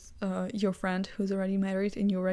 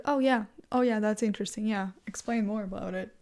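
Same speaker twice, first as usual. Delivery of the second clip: dismissive. Shown as a demonstration. Answering someone in a political discussion, dismissive. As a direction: brush them off with mock interest. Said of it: "kinda make it in a dismissive way".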